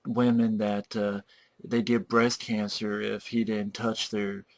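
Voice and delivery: a hint of the dull actor; mock flat line reading; monotone date.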